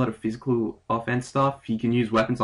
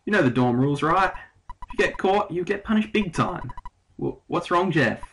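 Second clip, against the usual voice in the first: put-on British accent. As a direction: play Tony in a half-Aussie British accent. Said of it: "sounded more like myself being an Australian or British".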